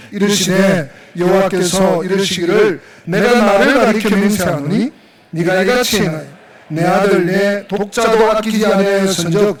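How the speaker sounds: measured, sustained read-aloud voice; scripture reading. Acted. Pastor leading the congregation through the verses, measured scripture reading.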